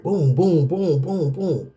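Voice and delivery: steady run of pounding booms; imitated heartbeat. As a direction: mimic a thumping heart, beat by beat. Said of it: "my heart is pounding like".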